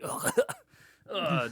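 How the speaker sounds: cringing "ugh" with a laugh; embarrassed, half-laughing groan; disgusted groan. Retold or imitated. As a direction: groan as if it pains you. Disgust at the kid's voice.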